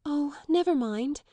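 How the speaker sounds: high, slow, eager apologetic; eager apology. Acted. Girl eagerly apologises to her stepmother. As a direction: hurry to excuse herself, eagerly sorry. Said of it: "in the tone of eager apology".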